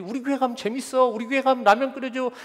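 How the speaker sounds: put-on high, eager kid chatter, speeding up; excited kid. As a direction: rattle off the treats like a kid. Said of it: "뭐 이렇게 전도하지".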